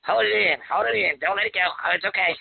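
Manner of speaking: impression of a singer. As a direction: strain it like the singer holding it in. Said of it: "that wasn't a bad impression of that singer".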